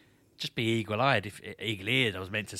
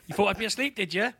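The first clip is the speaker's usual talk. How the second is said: a hint of a stern granddad, pitched up; lightly voiced scolding granddad; mock stern chastising; 9 semitones higher than usual. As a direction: playfully tell off someone sneaking in. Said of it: "ready to chastise me".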